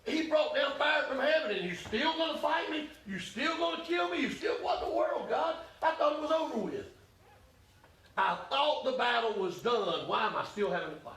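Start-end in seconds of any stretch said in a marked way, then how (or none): 0.0-6.9 high, pleading cry to God; Elijah's anguished cry. Acted. Elijah pleading with God, high and pleading. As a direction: cry out, pitched up and desperate. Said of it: "Elijah said".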